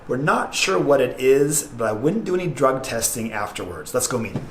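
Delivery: low, deadpan aside to camera; confiding intro. Pretend. Confides to camera before meeting guest.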